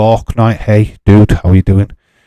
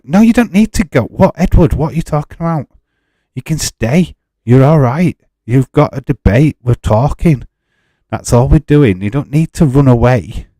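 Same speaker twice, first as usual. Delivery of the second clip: pitched up high, begging him to stay; urgent pleading; 5 semitones higher than usual. Real, not acted. Streamer pleading with Edward to stay in the chat, urgent and pitched up.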